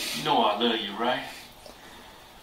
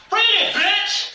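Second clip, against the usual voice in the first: slow demand; slower than usual. Acted. Director repeats demand.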